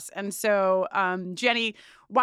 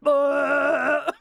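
disgusted groan; 3 semitones higher, 4 dB louder than usual. Real, not acted. Disgust at worm's head.

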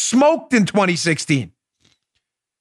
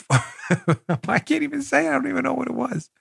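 laughing; 5 semitones higher, 5 dB quieter than usual. Real, not acted. Cracking up over the menu.

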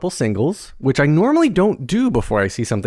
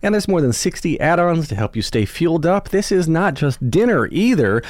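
upbeat, lively sponsor read; podcast ad read; 3 semitones higher than usual. Acted. Host pitching meal delivery to listeners, lively ad read. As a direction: sell it with punched key words and swooping pitch.

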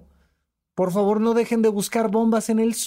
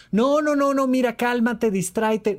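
quick higher "no, no, no", trying to shut the tears down; mock hushing; 5 semitones higher than usual. Listener telling a crying friend to calm down, mock hurried. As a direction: imitate someone anxiously cutting off a friend's crying. Wrong reaction, hushing the crier.

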